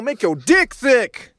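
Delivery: dick thick drawn out slow and high; slow drawn-out slogan. Acted. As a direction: stretch out every word like an ad jingle. Jokey slogan, stretched out.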